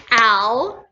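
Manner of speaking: Al alone, loud and drawn out; teacher demonstrating the syllable Al; isolated syllable. Shown as a demonstration. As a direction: sound out Al as one separate beat. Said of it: "listen carefully for the vowel sounds".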